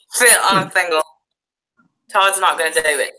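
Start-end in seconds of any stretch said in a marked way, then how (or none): 0.1-1.0 holding tongue with fingers. Shown as a demonstration. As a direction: say it with the tongue held. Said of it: "Hold your tongue and say".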